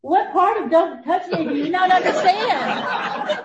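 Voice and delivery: high, slow, laughing through husband's retort; wife laughing as she quotes husband's retort. Retold or imitated. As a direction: retell his grumpy line while giggling. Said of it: "and then he goes".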